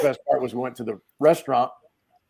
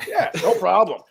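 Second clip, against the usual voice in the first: high, louder mock drunken confidence; drunk guy; 7 semitones higher, 4 dB louder than usual. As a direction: brag like a shit-faced lifter. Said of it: "Shit-faced".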